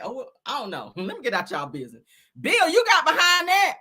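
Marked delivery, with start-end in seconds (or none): 2.4-3.8 incredulous. Pretend. Mocking Bill in disbelief.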